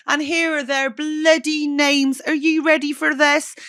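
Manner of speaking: hamming up a grand thank-you read. Pretend. Host thanking listeners in a put-on announcer voice. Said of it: "I don't know why I'm doing that voice".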